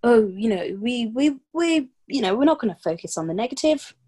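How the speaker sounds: lightly acted, stammering excuse; a touch of put-on dithering; mock evasive. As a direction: imitate someone glossing over it. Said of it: "it was, like, hush hush".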